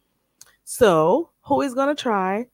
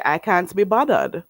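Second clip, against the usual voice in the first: English with a Jamaican accent, bothered as "boddud"; everyday Jamaican-accented English; English in regular accent. Shown as a demonstration. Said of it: "with your regular accent".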